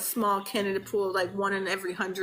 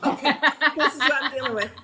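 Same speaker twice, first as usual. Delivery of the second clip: exasperated; 4 semitones higher, 6 dB louder, faster than usual. Real, not acted. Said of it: "Someone has insisted on being part".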